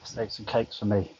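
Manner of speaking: words said through a burp. Real, not acted. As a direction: burp while talking. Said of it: "That's a burp, by the way".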